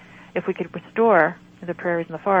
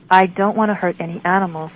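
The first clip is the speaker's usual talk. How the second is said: put-on louder, pleading like a child; begging like a child; 4 dB louder than usual. Patient begging the healer, childlike plea. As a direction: plead as a small child would. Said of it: "I begged, like a child".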